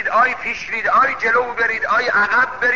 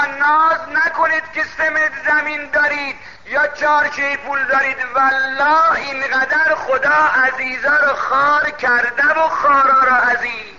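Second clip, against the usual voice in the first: raised preacher's call to the crowd; preaching exhortation; 2 semitones higher than usual. Acted. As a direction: warn the listeners from the pulpit. (موعظهٔ پرشور منبری)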